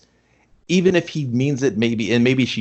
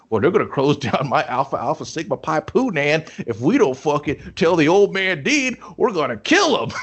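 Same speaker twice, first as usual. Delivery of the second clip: lightly voiced frat jock, a touch of bro swagger; hint of the frat guy ranting, half-laughing; old frat guy. Frat jock complaining to nerds about the Dean, lightly voiced bro. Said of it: "And he's like".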